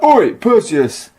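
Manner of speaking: slow, drawn-out "Oi, Perseus!" in a put-on voice; gruff Atlas call. Atlas calling out to Perseus, a slow put-on bellow. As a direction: bellow it slowly across the sky. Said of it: "he's like".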